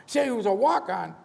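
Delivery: high, loud snap of a command; emphatic order. Retold or imitated. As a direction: bark the decision, no discussion. Studio boss ordering the movie.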